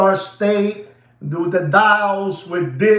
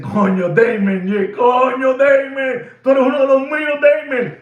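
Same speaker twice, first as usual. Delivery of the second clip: excited exclamation; 4 semitones higher than usual. Retold or imitated. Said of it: "I said".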